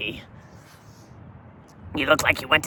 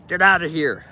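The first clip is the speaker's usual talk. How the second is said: scoffing; 5 semitones higher, 6 dB louder than usual. Real, not acted. Scoffing at the fake pirates.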